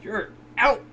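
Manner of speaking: a squeaky dismissive character voice; high mock voice. The chef sending Okuyasu off, high squeaky mock voice. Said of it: "this guy's like".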